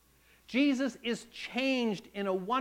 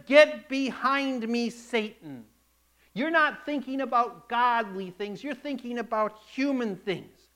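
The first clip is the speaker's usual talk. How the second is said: stern rebuke; 3 semitones higher, 4 dB louder than usual. Retold or imitated. Jesus rebukes Peter.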